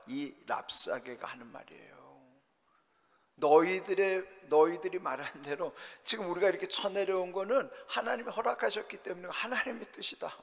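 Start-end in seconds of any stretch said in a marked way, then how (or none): 3.4-10.4 higher-pitched taunting claim; retold mockery. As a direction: quote the invader, lightly mocking in a raised voice. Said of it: "얼마나 조롱하는 거예요". (높은 목소리로 조롱하듯 인용)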